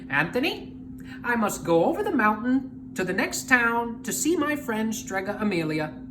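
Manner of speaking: lightly voiced old witch; Stregonona. Stregonona instructs before leaving.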